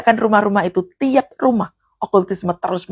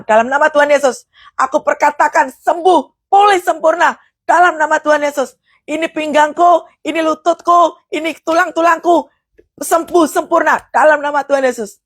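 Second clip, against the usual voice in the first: raised, rising healing declaration; forceful preaching; 6 semitones higher than usual. Shown as a demonstration. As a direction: proclaim healing with full force. (proklamasi kesembuhan yang berapi-api)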